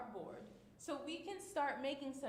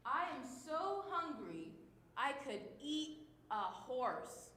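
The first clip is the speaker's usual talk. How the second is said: dramatic; 2 semitones higher, slower than usual. Shown as a demonstration. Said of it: "when you're being super dramatic".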